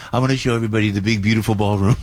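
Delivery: quick, lightly voiced Trump impression; imitating the president. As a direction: the speaker mimics the president, rattling it off. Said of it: "the president goes".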